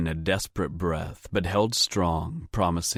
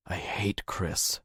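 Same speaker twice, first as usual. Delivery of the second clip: slow, soft, sullen mumble; mumbling; 5 dB quieter, slower than usual. A narrator's reading. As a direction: mutter it under your breath. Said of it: "she mumbled".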